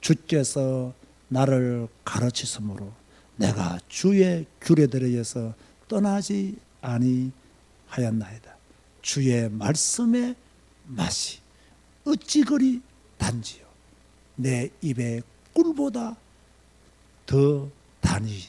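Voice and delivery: very slow, deliberate, measured reading aloud. Reading a Bible verse aloud to show how it was read, slow reading. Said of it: "천천히".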